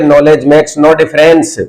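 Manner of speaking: slow down and say it calmly. Shown as a demonstration. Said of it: "अरे आराम से बोलिए".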